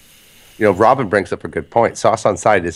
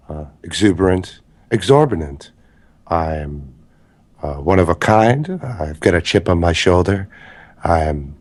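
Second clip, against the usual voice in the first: James Franco impression. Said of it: "I was trying to do James Franco".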